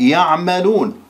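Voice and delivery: slow, lifted "يعملون" to stress the ي at the start; يعملون ببطء مع التشديد على الياء. Shown as a demonstration. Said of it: "الأصل فيها أن تأتي بالياء".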